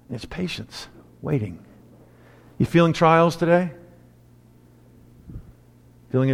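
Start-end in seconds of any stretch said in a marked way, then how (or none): 0.1-1.6 softly, much lower; hushed. Acted. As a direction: sigh it out quietly. Quiet after a sigh.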